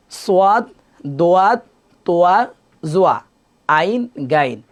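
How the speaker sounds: সোয়াদ, দোয়াদ said with a glide, like soo-ad, doo-ad; wrong pronunciation demo. Shown as a demonstration. Teacher showing students the wrong way. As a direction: show the common mistake, সোয়াদ with oa. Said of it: "আমরা পড়ি এভাবে".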